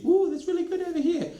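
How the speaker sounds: high mock enthusiasm; mock anecdotal boaster. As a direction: send up the smug anecdote. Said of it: "don't be interested in that anecdotal fallacy".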